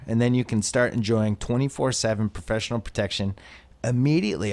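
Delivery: scripted sponsor read. Real, not acted. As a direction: deliver a smooth podcast advertisement. Reads a sponsor ad.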